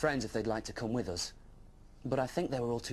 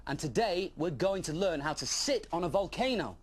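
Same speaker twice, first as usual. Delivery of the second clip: high and louder with relish; excited explaining; 7 semitones higher, 3 dB louder than usual. Acted. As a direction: sell volcano sitting as great fun. Dragon announces class.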